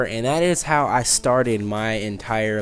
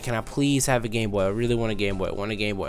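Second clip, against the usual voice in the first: repeated pleading, fading softer; begging; 4 semitones lower, 5 dB quieter, faster than usual. Retold or imitated. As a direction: beg over and over, trailing off quieter. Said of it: "begging my dad".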